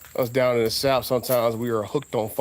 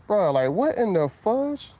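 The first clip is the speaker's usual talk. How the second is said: higher, slow, drawn-out disbelief; 8 semitones higher, slower than usual. Real, not acted. Driver asks the bug what it is, in disbelief. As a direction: stretch it out in disbelief.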